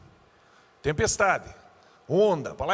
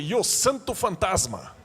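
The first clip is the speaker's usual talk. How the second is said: mock literal translation; 4 semitones higher, 4 dB louder, slower than usual. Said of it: "E eu falei".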